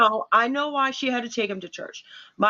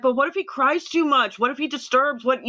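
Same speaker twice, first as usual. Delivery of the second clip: higher fretful what-ifs; retold worry; 4 semitones higher than usual. New mom fretting to her mother about church, higher anxious questions. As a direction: fret over every possibility. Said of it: "I was freaking out".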